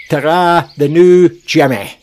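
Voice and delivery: a light, cheery Scottish sign-off; Scottish accent. Pretend. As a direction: lay on a touch of the Scottish accent for the goodbye. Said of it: "in my Scottish accent".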